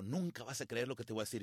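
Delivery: low, soft retold confidence; confiding. Friend approaches him with unbelievable news, quietly confiding. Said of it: "él se me acercó y me dijo".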